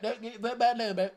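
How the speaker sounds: high laugh breaking into the words; laughing through it. Real, not acted. Streamer repeats himself to chat, laughing. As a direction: giggle your way through the line.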